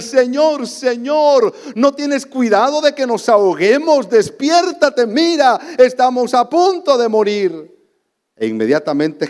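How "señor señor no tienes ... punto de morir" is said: higher, urgent mock cry of Señor; panicked plea. Disciples crying to sleeping Jesus, mild mock panic. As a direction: beg for help as the boat sinks, a touch of panic. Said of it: "le gritan".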